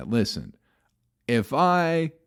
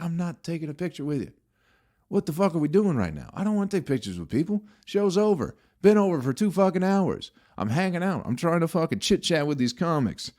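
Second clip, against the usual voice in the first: exasperated rant; 8 semitones higher than usual. Retold or imitated. Retold rant at Fire.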